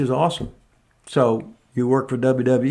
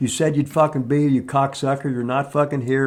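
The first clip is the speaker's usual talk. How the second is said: acted-out flat, angry cussing rant. Retelling cussing at a late washer-dryer repair guy on the phone: imitating own angry cussing. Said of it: "and I'm cussing at him".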